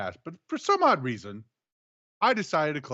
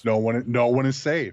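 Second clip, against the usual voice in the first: low menacing repeat; whisper-like threat of danger; creepy voice; 3 semitones lower, 4 dB louder than usual. Acted. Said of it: "You said that in a very creepy way".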